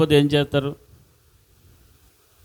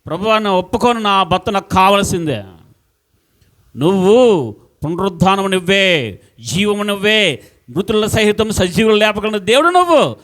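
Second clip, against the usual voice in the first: higher, pleading cry to the Lord, a touch louder; desperate pleading prayer; 4 semitones higher, 3 dB louder than usual. Retold or imitated. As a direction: beg God not to let go of her husband. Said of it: "ఏడ్చి, ఏడ్చి, గుండెలు బాదుకొని". (భర్త కోసం దేవునికి మొరపెట్టే విధవ, ఎత్తైన వేడుకోలు స్వరం)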